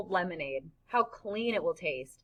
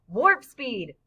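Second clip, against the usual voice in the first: louder rallying cry; excited shout; 3 semitones higher, 5 dB louder than usual. Acted. Boy urges his friend to run faster, excited shout. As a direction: shout it like a starship command. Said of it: "Freak is shouting".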